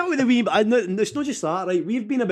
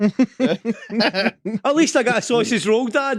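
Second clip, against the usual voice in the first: put-on child voice; 5 semitones higher, 4 dB louder, much slower than usual. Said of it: "voicing his son".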